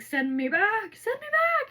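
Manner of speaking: building from loud to a high shrieking plea; frantic repeated cry, rising to a shriek; desperate plea. Retold or imitated. Woman ripped from tank pleads.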